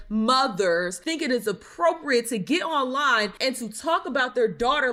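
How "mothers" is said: sarcastic stress on "mothers", lower and set apart; a mocking pause, then "mothers" leaned on; air quotes. Shown as a demonstration. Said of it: "I say that in quotes again".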